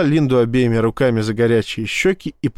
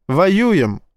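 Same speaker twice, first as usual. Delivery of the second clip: bright upbeat answer, pitched higher; cheerful, higher-pitched reply; joyful; 7 semitones higher than usual. A narrator's reading. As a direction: toss it off gladly. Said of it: "радостно ответила Ива".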